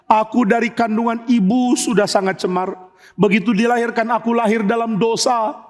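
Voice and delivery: acted penitent pleading; pleading prayer. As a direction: beg God for forgiveness. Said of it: "Dia memohon".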